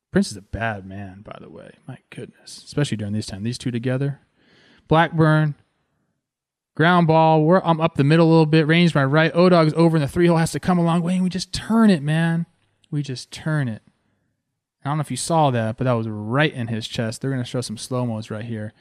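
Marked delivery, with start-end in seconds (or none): 4.9-13.8 louder and higher, quick, reliving the play; hyped replay call; fired-up play call. Real, not acted. Calling the double play on replay.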